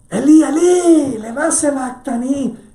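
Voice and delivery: slow, very high, loud anguished wail; desperate cry. Acted. Jesus on the cross cries to the Father, slow anguished wail. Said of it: "Está desesperadísimo".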